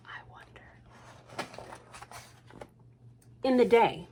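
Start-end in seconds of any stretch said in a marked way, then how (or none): 0.1-1.5 slow breathy whisper; whispered musing. A narrator's reading. Reader musing to the child. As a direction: wonder it in a whisper.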